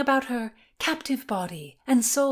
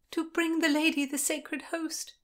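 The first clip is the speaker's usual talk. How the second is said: put-on higher, frightened girl; scared answer; 8 semitones higher than usual. A narrator's reading. Constance, too scared to lie, answers Lord William, higher and frightened. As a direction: blurt the truth out of fear. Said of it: "too scared to lie".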